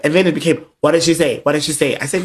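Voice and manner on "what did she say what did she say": mock eager questioning. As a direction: press for news impatiently. Imitating friend's eager questioning.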